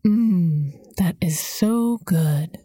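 gurgling through melting chocolate; slow, savoring with a mouthful; mouth full. A narrator's reading. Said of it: "she gurgled".

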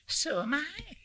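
put-on very high North Country old lady; North Country accent. A narrator's reading. Old lady addressing a stranger on the ferry, high North Country accent. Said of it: "she said in an English North Country accent".

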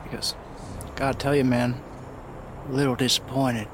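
loud, high, cocky taunt; mocking taunt. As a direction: jeer at him, grinning. PC taunts the villain.

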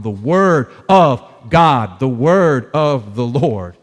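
"word" drawn out deliberately; emphasis on word. Shown as a demonstration. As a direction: lean on "word" each time. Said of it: "This is the emphasis".

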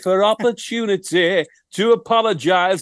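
lightly voiced rock star, slowing at the end; a hint of a northern rock singer signing off; a rock singer impression. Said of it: "Ryan Tubridy".

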